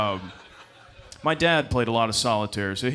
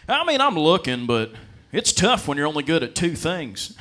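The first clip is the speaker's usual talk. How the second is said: put-on old classmate voice; 4 semitones higher, 4 dB louder than usual. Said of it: "He goes".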